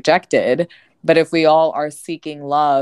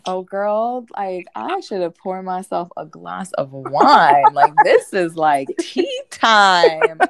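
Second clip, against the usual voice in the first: laughing; 3 semitones higher, slower than usual. Real, not acted. Excited gossip setup.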